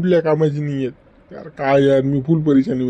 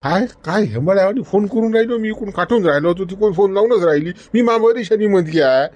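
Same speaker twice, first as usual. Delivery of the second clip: mildly raised, fed-up telling-off; acted yelling; 4 semitones higher than usual. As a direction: scold down the phone in exasperation. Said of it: "काय झालं तुम्हाला एवढं ओरडायला".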